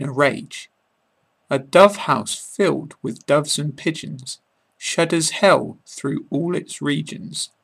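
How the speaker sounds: measured poetic recitation with pauses; poem reading. Acted. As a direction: read it aloud like a favourite poem. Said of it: "I'm going to do a reading of William Blake's poem".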